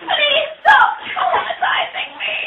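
desperate pleading. Real, not acted. Girl begs brothers to stop.

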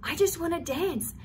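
put-on high, bright burst of joy as the old man; suddenly lifted, wanting to dance; excited man. The freed man telling them he wants to dance, high excited voice. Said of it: "And he's like".

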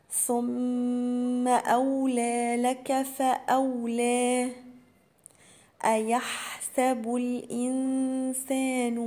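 slow, measured recitation of أولى لك فأولى; Quran recitation. Shown as a demonstration. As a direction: recite each letter with its full length. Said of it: "أهم حاجة في القرآن". (تلاوة مرتلة ببطء)

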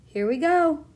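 loud, high excited shout. A narrator's reading. Grasshopper shouts to the creatures, excited loud call. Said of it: "shouted the old green grasshopper".

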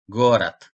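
"Gorat" ending in a devoiced T; final D as T. Shown as a demonstration. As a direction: say "Gorat" with A before a crisp final T. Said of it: "D harfini sonda olduğu için T olarak".

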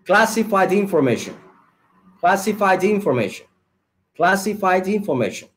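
"Classified information" joined as one phrase, D running into the I; linked words. Shown as a demonstration. English teacher repeating the phrase for students, linked smoothly. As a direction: link the end of "Classified" straight onto "information". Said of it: "lo decimos otra vez".

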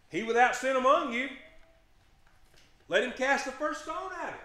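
high, loud solemn declaration; loud preaching proclamation. Real, not acted. Preacher proclaiming Jesus' words to the congregation. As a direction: proclaim it over the whole room.

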